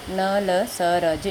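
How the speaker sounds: slow, separated sounds in न ल स र ज; letter by letter. Shown as a demonstration. Teacher repeating letters for pupils to learn, letter by letter. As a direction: sound out न, ल, स, र, ज singly with gaps. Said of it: "इसको आप ऐसे भी".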